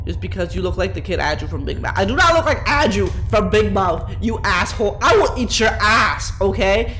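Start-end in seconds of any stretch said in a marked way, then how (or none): 2.0-7.0 raised, mock-offended retort; mock outrage. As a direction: play up being insulted. Retorting to a viewer's comparison.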